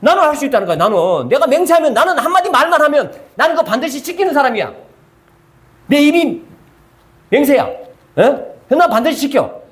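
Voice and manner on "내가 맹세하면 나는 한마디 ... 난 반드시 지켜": mock boastful vow. Preacher mocks a man bragging about his vows, raised mock boast. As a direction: play the braggart swearing he always keeps his word.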